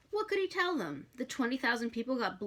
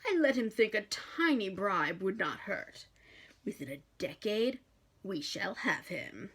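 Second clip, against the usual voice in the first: demon boast. Acted.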